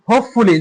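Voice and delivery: হোপফুলি with weight on হোপ; stress on হোপ. Shown as a demonstration. Teacher showing pupils the stressed part, stress on হোপ in হোপফুলি. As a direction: press the first part of হোপফুলি. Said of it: "যে হোপের ক্ষেত্রে কিন্তু আমরা".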